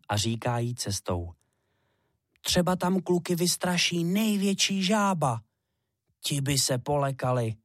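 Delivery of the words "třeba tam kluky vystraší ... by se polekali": a bit higher, a hint of an eager child; lightly voiced little hare. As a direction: chatter eagerly to mum while walking.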